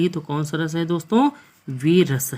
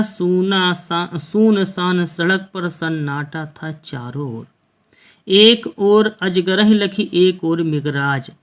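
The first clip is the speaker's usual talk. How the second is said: slow, measured verse recital; poem recitation; slower than usual. Acted. Teacher reciting a Hindi verse to students, slow poem recitation. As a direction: draw each line out like a poet on stage.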